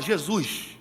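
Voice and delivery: Jesus with a soft Carioca hissed s; Carioca accent. Shown as a demonstration. Preacher demoing a Carioca Jesus for the congregation. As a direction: say Jesus the Rio de Janeiro way. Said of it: "Fala igual carioca".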